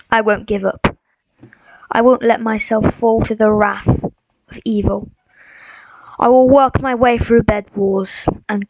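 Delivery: mock-solemn pep talk, measured; positive speech. Streamer rallying himself to not give up, slow pep-talk delivery. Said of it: "positive speeches always help".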